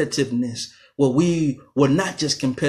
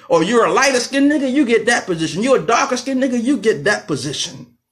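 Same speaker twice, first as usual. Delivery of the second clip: mocking slave master; 6 semitones higher than usual. Slave master sorting Africans by looks, in a high mocking sneer. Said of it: "and say".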